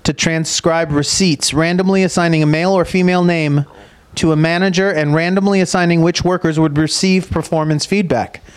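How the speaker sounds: steady reading of a research summary; reading aloud. Acted. Host reading a professor's findings to cohost, measured reading voice. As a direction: read it out like an abstract.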